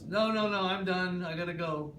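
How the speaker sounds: high, loud no no no easing down; frightened grandma refusing to stay; panicked refusal. Retold or imitated. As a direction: refuse in a rush, calming toward the end. Panicked woman refusing through window.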